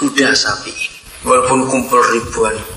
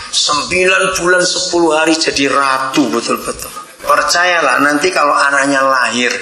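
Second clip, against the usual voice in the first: ordinary talk, nothing marked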